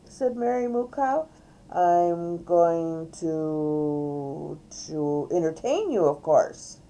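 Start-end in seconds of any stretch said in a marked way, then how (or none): 1.7-6.8 loud, lightly voiced show host; showy cow entertainer. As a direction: announce it like a hammy magician. Reader plays Mary Moo Cow performing.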